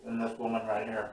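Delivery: talking with a mouthful of food; words round a bite of food; mouth full. Real, not acted. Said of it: "Sorry, my mom said it was rude to talk with food in my mouth".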